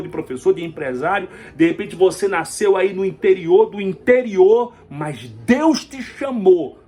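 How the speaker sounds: emphatic pulpit proclamation, key declarations stretched out; rousing preaching. Real, not acted. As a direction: drive it home to the listener.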